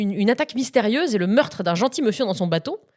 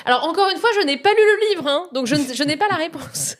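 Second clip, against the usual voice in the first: mock imitation; 7 semitones higher, 3 dB louder than usual. Imitating Chan's repeated disclaimer.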